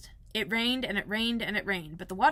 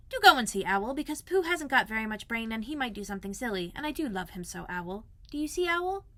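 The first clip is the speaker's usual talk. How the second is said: put-on pleading boy; 2 semitones higher than usual. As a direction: beg gently, trailing off tenderly. Narrator voices Christopher Robin pleading.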